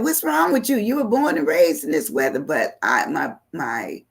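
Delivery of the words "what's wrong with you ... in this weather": much higher, scolding mom; mock-scolding mother, pitched up; imitating mother. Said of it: "She said".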